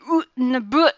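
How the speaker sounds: "Oot and a boot" with out said as "oot" and about as "a boot", mocking the cliché; stereotyped Canadian "out and about". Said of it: "when people say we say".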